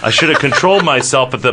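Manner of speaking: quick, livelier self-scolding; animated regret. Acted. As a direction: scold yourself briskly, then break off. First take, broken off by interruption.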